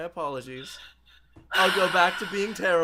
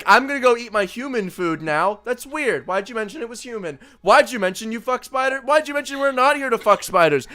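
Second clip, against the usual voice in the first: mock puzzled alien; 5 semitones higher, 4 dB louder than usual. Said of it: "bringing it up is like being like".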